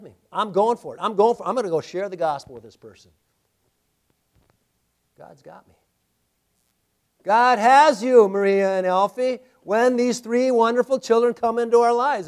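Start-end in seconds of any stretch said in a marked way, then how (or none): 0.3-2.5 loud, determined repeat; bold declaration. Acted. Preacher voicing a believer's bold resolve. 7.2-11.3 emphatic assurance. Real, not acted. Pastor assuring the family God has them.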